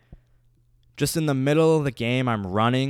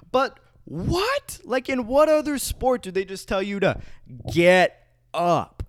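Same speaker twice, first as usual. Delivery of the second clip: high, loud disbelief; indignant; 7 semitones higher, 4 dB louder than usual. Real, not acted. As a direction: rant in high outrage. Indignant rant.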